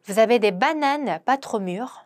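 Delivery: very slow, careful French; slow pronunciation model; slow demo. Shown as a demonstration. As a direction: lay out each syllable slowly for learners. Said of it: "발음 한번 해보도록 하겠습니다".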